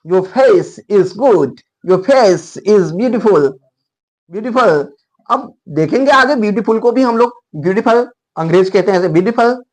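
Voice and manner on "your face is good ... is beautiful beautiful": slow, deliberate reading of each word; teacher reading an example line slowly; slow example sentence. Shown as a demonstration. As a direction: read it slowly so the class can follow. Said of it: "फेस".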